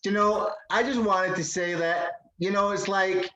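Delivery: put-on American accent, lightly done; a Scot faking a laid-back American. Scottish guest playing an American for his host. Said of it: "I'm not the, particularly the best at accents".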